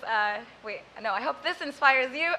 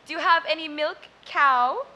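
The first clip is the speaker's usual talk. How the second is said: punchline to dairy seller; 4 semitones higher, 7 dB louder than usual. Acted. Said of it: "apprehensively walks up".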